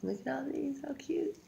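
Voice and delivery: high, soft whisper, cooing over a picture. Real, not acted. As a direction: breathe it out like sharing a secret delight.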